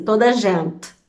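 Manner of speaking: a light imitation of a Portugal accent, whispered; Portuguese accent. Brazilian vlogger lightly imitating the Portuguese, half-whispered accent. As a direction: lightly mimic a European Portuguese "toda gente", under the breath. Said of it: "eu não sei imitar, mas é mais ou menos assim".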